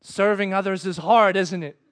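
lightly voiced God, matter-of-fact; understated voice from above; God's audible voice. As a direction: state it as a knowing remark. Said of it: "almost in an audible voice".

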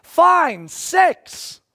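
high, loud final number; exasperated call. Retold or imitated. Pastor calling the final count, exasperated and loud. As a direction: give up and call the last number.

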